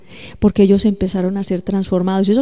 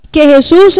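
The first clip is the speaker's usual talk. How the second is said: preaching burst; 6 semitones higher, 10 dB louder, slower than usual. Real, not acted. Preacher builds to climax.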